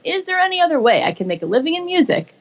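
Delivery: high, hopeful questioning lift on other; searching, earnest question; asking a question. Retold or imitated. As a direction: ask it as a real wondering question. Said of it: "again, now asking a question".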